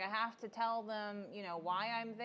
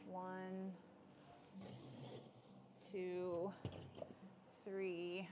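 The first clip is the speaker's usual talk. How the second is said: whispered count; 7 dB quieter, much slower than usual. Real, not acted. Counting while pouring.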